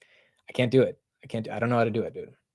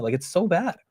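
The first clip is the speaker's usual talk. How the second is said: ordinary delivery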